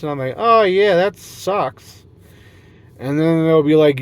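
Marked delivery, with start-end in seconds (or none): 0.4-2.0 high, cheerful mock surprise; mock dawning realization. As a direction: act like it just hit you.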